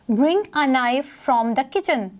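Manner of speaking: slow, careful reading of the sentence; example read aloud. Shown as a demonstration. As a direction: read it slowly for class. Reads example sentence slowly. (धीमे से उदाहरण पढ़ना)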